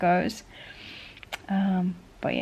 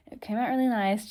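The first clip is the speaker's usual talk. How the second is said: talking with a retainer in; slightly lispy retainer speech; wearing a retainer; 2 semitones higher, faster than usual. Real, not acted. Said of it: "Sorry, I've got my retainer in".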